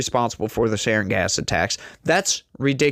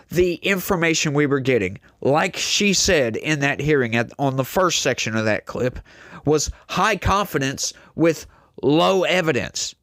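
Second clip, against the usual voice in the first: ordinary talk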